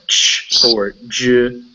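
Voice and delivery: isolated "ch", then voiced "j"; ch and j sounds. Shown as a demonstration. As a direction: show "ch" and "j" as bare consonant sounds. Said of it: "you make sounds like".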